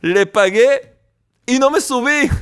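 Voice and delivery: put-on high, proud little boy; a kid proudly explaining his scheme; child. Son explaining the bus trick to his father, high and proud. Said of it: "le dice el niño".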